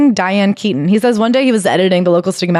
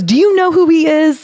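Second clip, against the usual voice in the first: a mock furious demand, pitched well up; indignant, as if defending him; 9 semitones higher than usual. Diane furiously confronting the lawyer, high indignant demand. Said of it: "and she's furious".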